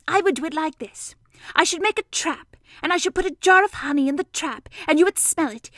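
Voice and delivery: high, loud explaining voice; eager Piglet. A narrator's reading. Piglet explaining the honey trap to Pooh, eager and high.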